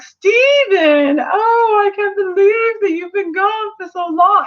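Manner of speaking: dramatic White Diamond. Retold or imitated. White Diamond greeting Steven with a high, hammed-up wail. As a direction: play the grieving queen to the hilt. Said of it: "she's so freaking dramatic".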